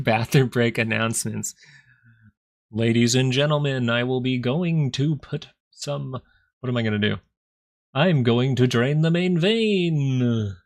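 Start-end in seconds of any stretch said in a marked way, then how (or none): 2.7-10.6 slow, hammed-up announcer voice for a joke; mock announcer. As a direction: announce the bathroom trip grandly and slowly. Mock announcement of bathroom break.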